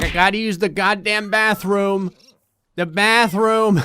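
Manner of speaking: whine-shout about the bathroom; desperate cat. Pretend. Gamer voicing her cat, loud desperate bathroom complaint. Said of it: "She's like".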